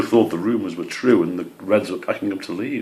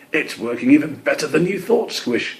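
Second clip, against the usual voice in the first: high, quick bird chatter; chattering greenfinch; 8 semitones higher than usual. Acted. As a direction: chatter it out like a pleased little bird. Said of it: "she chattered".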